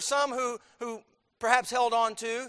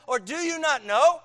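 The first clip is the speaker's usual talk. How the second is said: higher, louder challenge; insistent preaching; 6 semitones higher, 7 dB louder than usual. Acted. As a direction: press the question on the hearers. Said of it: "He says".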